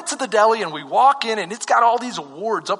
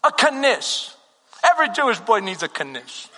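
lightly voiced New York deli lady; New York accent. Deli lady offering a knish, light New York accent. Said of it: "in this New York accent".

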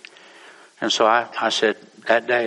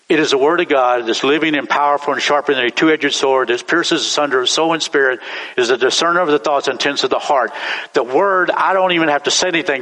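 preaching scripture; 2 semitones higher than usual. Acted. Preacher proclaiming the power of the word, ringing. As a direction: proclaim the verse to the church.

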